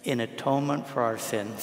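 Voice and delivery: measured prayer phrase, left open for repetition; slow recitation. Shown as a demonstration. Priest leading congregation in repeated prayer, slow and measured. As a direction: say it evenly for others to echo. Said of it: "when I say it slowly".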